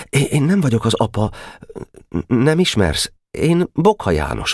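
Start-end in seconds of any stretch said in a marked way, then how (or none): 0.1-3.1 higher, stammering, stifled plea; choked voice. Acted. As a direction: protest with a tight throat. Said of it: "szólt folytott hangon a tábornok". (fojtott hangon, meg-megakadva)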